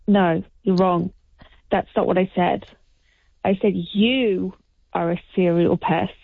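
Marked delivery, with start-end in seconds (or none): 3.7-6.1 YOU held long and set apart; slow correction, drawn-out YOU; stress on YOU. Shown as a demonstration. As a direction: lean slowly on the word you. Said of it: "The emphasis being on the you".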